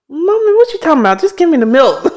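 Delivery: put-on high, fast, pushy baby voice; voicing the baby. Mother voicing her daughter wanting milk. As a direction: play the impatient baby demanding milk. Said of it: "And she's like".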